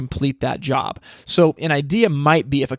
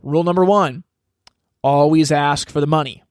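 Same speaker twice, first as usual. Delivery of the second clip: lightly imitated Southern team-owner accent; Jerry Jones accent. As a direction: lay down the rule in a slight Southern owner accent. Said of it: "in, like, the Jerry Jones accent".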